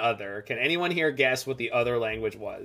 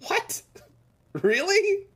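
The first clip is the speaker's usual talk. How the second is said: mock disbelief; slower than usual. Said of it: "one of the strangest things I have ever experienced".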